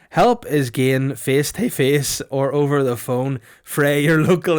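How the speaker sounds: slow, mock Scottish accent. Shown as a demonstration. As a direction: read it like a Scotsman. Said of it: "like a Scotch person".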